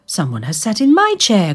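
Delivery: a lightly voiced cross mother bear; mother bear grumbling about her chair; mother bear growl. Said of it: "growled Mother Bear".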